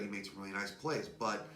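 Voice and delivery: out of breath, straining for air; short of breath. Real, not acted. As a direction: talk while winded. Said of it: "short of breath here".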